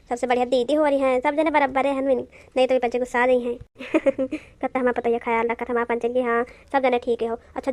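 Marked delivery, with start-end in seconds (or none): 3.6-4.2 small acted laugh; short chuckle. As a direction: chuckle briefly to yourself. Amused after the family talk.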